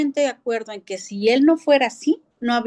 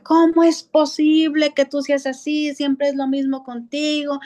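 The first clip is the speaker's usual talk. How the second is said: father scolding his daughter, pitched higher and raised; angry yelling; 4 semitones higher than usual. Retold or imitated. Father scolding his daughter over a school report, angry yelling. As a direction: scold her like an exasperated dad. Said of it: "el papá se enoja y le grita".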